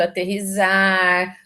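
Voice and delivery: "aterrissar" slow with a Z sound, "aterrizar"; common mispronunciation with Z. Retold or imitated. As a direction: imitate people saying "aterrissar" as "aterrizar", drawn out. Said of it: "cansado de ouvir as pessoas falarem".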